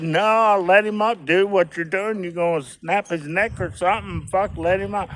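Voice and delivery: high, pleading shout to let go; urging the dude, you'll snap his neck; retold yell. High retold shout telling him to let go before he snaps a neck. Yelling at man again.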